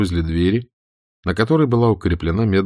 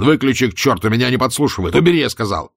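angry shouting; 4 semitones higher, faster than usual. Acted. Roman keeps shouting at Stirlitz in the car, furious. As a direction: keep yelling, losing his temper. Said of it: "крикнул Роуман".

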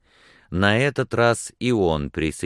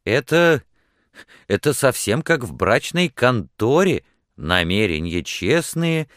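high, louder, animated outburst; indignant exclamation; 6 semitones higher, 5 dB louder than usual. A narrator's reading. Woman mocks her suitor's honest intentions, exclaiming. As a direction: exclaim it, cross yet amused. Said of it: "воскликнула она".

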